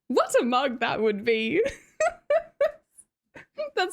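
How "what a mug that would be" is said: lightly mimicked automated voice, tickled; mimicking text-to-speech. Streamer echoing the donation message that cracked her up, mimicking it. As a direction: repeat the robot's line, amused. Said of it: "The way it said".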